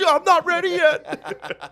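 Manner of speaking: high, slow laughing whine; mock whining teen to his dad; whiny teen. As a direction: drag it out like a sulking kid. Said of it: "I'm like".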